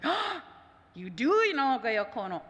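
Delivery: a hint of the boy's sudden surprise; lightly imitated amazed realization; surprised. Boy surprised she knows.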